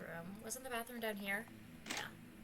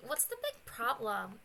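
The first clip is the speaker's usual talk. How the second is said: ordinary talk, nothing marked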